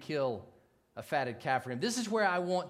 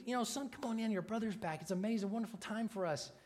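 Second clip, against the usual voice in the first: gentle pleading; 4 semitones higher, 4 dB quieter than usual. Retold or imitated. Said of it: "He's pleading with him".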